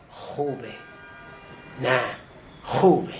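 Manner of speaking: low-pitched, measured praise; approving teacher. Retold or imitated. Teacher weighing a student's writing, low measured approval. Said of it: "تشویقی به ما داد".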